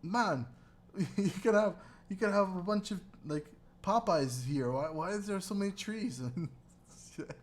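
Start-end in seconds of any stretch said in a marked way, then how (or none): 0.0-6.2 high, excited mock tourist voice; quoted tourist. Retelling tourists marveling, in a lifted mock voice. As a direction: gush like an amazed visitor. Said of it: "and they're like".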